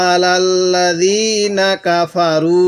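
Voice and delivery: আলাল্লাযীনা কাফারু with the last vowel held one count at the stop; one-alif pause. Shown as a demonstration. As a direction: hold the end one alif at waqf. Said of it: "ওয়াকফের সময়ও এক আলিফ টান দিব". (ওয়াকফে এক আলিফ টান)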